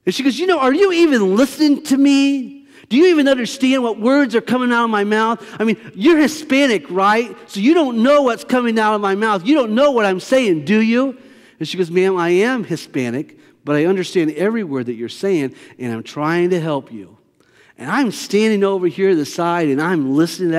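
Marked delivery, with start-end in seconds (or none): 0.4-11.2 imitating a rude guest lecturing the desk clerk; mock condescending rant. 11.9-17.2 kind clerk. Retold or imitated. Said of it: "as friendly and as kind".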